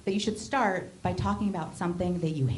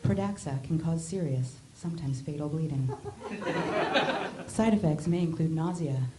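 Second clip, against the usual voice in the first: sexy voice. Pretend. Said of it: "me impersonating a sexy voice".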